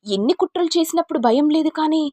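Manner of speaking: enraged high-pitched taunt; furious taunt. Acted. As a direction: taunt her cruelly. Knife-wielding rage at schemer.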